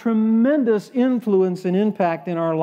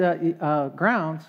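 put-on soft, faltering old lady's echo, slightly lower; puzzled old lady; 3 semitones lower, 4 dB quieter than usual. Older lady at the attorney, puzzled and faltering. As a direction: stumble over the word like a confused older woman. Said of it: "She talked like this".

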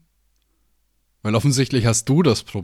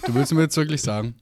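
incredulous; 5 semitones higher than usual. Real, not acted. Disbelieving outburst.

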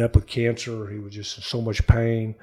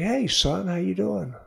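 higher, softer lilting hello; father's greeting; 7 semitones higher, 5 dB quieter, slower than usual. Retold or imitated. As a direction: lightly imitate a dad greeting his son. Dad's cheerful greeting, retold.

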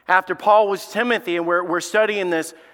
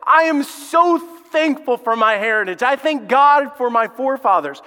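voicing Paul; 7 semitones higher, 5 dB louder than usual. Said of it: "he says".

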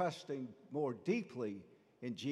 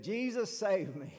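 cry for help; 4 semitones higher, 5 dB louder than usual. Acted. Peter cries out sinking.

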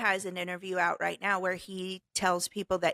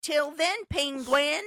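playful rhyme reading; 7 semitones higher than usual. Shown as a demonstration. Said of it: "Here we go".

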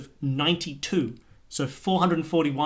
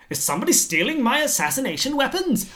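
put-on Russian accent; 8 semitones higher than usual. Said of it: "This is the voice".

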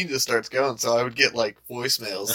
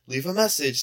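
voicemail greeting; 4 semitones higher than usual. Retold or imitated. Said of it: "she changed my voicemail".

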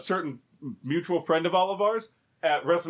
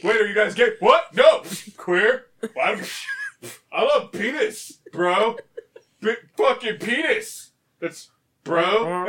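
louder, indignant bro protest; hammed-up macho denial; mock defensive bro; 3 semitones higher, 5 dB louder, slower than usual. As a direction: overprotest like an insecure jock. Wrestler defensively denying being gay.

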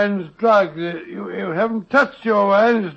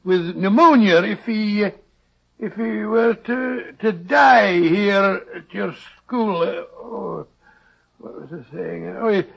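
a lightly done Scottish brogue, rolling and folksy; doctor hides behind a fake Scottish accent; put-on Scottish accent. Disguised doctor bargains with the schoolmaster in put-on Scottish accent. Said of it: "your Scottish accent is beginning to disappear".

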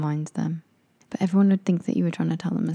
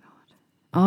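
slow unvoiced oh my God; shocked whisper; much slower than usual. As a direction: gasp it out in disbelief.

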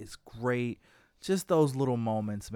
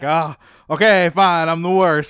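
loud, exasperated mock concession; hammed-up "fine, whatever" surrender; grudging acceptance; 10 dB louder than usual. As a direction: imitate someone giving in to being the worst. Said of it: "accepts the fact that he's".

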